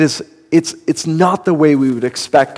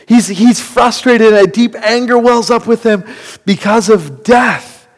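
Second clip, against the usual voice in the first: higher, building to a shout on "because of death"; rising preaching intensity; 6 semitones higher than usual. Real, not acted. Preacher telling the church Jesus raged at death, building to a shout. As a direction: climb in pitch and hit the end hard.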